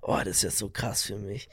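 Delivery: hushed excited whisper. Real, not acted. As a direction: whisper it, thrilled. Excited about Handpan player.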